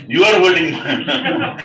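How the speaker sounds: "You are holding Maya" loud, high and slow; emphatic accusation. Acted. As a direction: hit "You" hard and stretch it out. Sage drives the lesson home.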